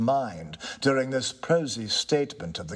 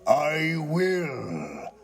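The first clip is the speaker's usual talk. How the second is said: slow, higher, struck by the idea; a touch of ghost voice; 5 semitones higher than usual. Acted. Ghost, surprised by the tenant's point, agrees slowly. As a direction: muse it as a dawning realisation.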